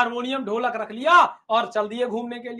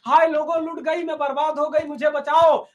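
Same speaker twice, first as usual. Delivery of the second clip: mock wail for help; 3 semitones higher, 4 dB louder than usual. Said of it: "बुढ़िया कह रही है".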